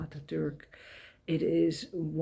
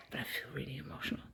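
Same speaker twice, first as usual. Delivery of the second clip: emotional; 2 semitones lower, 13 dB quieter, much faster than usual. Real, not acted. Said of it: "So I feel like crying".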